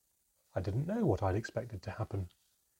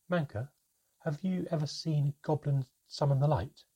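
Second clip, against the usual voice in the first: put-on higher, eager young goblin asking; a nervous child leaning in with a question; higher, nervous little goblin voice; 7 semitones higher, 4 dB louder than usual.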